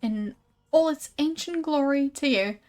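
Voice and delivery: lightly voiced exhibit presenter; sideshow huckster. Exhibitor instructing a paying visitor at the sarcophagus, showy. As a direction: present it with a showman's polish.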